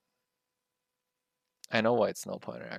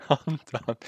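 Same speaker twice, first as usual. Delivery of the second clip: higher, laughing it out; laughing defeat; 5 semitones higher, 6 dB louder than usual. Real, not acted. Coder laughing in defeat after the crash. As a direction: laugh it off, giving up.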